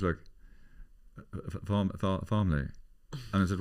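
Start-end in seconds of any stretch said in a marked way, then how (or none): 1.2-2.7 a hint of a stammering posh man; hesitant posh man. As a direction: imitate a posh man stuck on the word. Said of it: "And he went like this".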